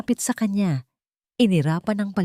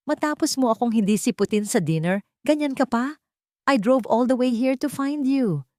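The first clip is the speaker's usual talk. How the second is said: higher-pitched indignant complaint; lightly acted outrage; 8 semitones higher than usual. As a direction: scold him for standing you up. Angelica quarrels, indignant.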